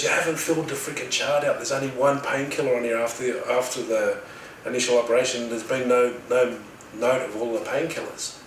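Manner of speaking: hammed-up scolding of a careless nurse; retold angry yelling. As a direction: act out the doctor tearing into the nurse. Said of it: "he starts yelling at the nurse".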